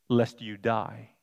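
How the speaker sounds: "lest you die" read slowly, lest weighted; plain slow reading. Shown as a demonstration. Preacher reading Eve's reply, slow and weighted. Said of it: "Notice how she said".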